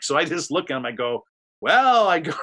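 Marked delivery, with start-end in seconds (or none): 1.6-2.1 high, loud drawn-out well; hammed-up host wrap-up; mock loud well. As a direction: announce the end of the train wreck. Ending awkward interview.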